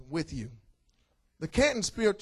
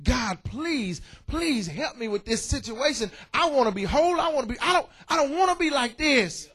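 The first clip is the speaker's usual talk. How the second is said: pleading prayer; 2 semitones higher than usual. Retold or imitated. Paul begging God for healing, mildly pleading. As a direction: beg the Lord with a touch of desperation. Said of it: "He begged the Lord".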